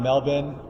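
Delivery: "Melbourne" said the Australian way, short "MEL-bun" with the r dropped; Aussie Melbourne. Shown as a demonstration. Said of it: "I'm saying Melbourne in a correct Aussie accent".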